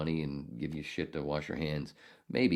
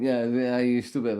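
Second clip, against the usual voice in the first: mock yelling; 8 semitones higher, 8 dB louder than usual. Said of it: "And he's still going".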